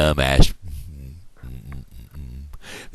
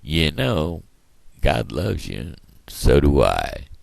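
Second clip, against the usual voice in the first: friendly sign-off. Real, not acted. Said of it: "the speaker saying".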